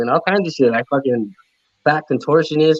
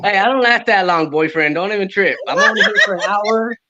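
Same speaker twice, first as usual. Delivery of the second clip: laughing; 5 semitones higher than usual. Real, not acted. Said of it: "speaking to her boyfriend".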